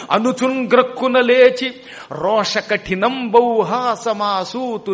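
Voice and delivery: slow, loud, chanted verse; poem recitation. Acted. Storyteller chanting a verse to his audience, slow and loud. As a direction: intone the old verse with full force.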